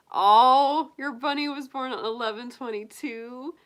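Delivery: high, cooing delight after a loud "Oh"; delighted gushing. Real, not acted. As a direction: melt at sweet news from a friend. Delighted reply to viewer's bunny news.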